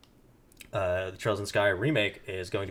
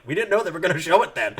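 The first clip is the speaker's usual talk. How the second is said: fast, laughing quote, louder and higher; mock developer; 9 semitones higher, 7 dB louder, faster than usual. Quoting Falcom staff to a co-host, laughing. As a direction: mimic the startled staff, laughing. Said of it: "the hires of Falcom were like".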